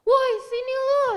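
imitated yell, high and drawn out; loud, high mock shout; retold shout. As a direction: holler it like someone calling from behind. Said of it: "ada yang teriak".

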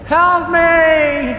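high, loud plea for help; trapped filly screaming to her sister. A narrator's reading. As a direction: scream it up from the dark.

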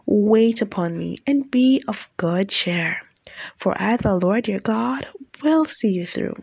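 a commanding yet tender divine proclamation; voice of God prophesying. Acted. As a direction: declare each line as God speaking to his children.

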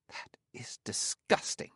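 whispered in disgust. Acted. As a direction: breathe it out, repulsed. Grimacing at an unpleasant suggestion.

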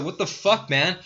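hammed-up angry shout; mock angry yell. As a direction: bark it like a boss caught off guard. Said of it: "he came out like".

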